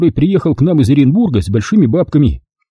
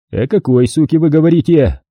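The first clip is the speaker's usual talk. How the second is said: вежливо. Acted. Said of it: "вежливо осведомился Шагов".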